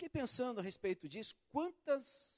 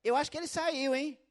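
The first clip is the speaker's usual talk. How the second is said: lightly voiced nosy neighbour, a bit louder; 6 semitones higher, 5 dB louder than usual. Neighbour leans out to tell the caller, light nosy voice. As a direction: play the meddling neighbour. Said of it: "Ela sai lá assim".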